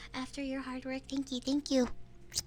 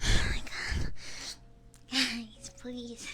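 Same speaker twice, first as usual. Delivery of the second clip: out of breath; 3 semitones lower, slower than usual. Retold or imitated. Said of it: "out of breath from my ketones".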